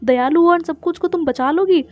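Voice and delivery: mock indignation, starting high; retold angry scolding. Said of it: "को बहुत गुस्सा आता है". (नकली गुस्से में ऊँची आवाज़ से डाँट)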